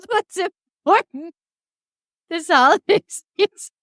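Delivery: words breaking into giggles; can't stop laughing mid-sentence; laughing while talking. Real, not acted.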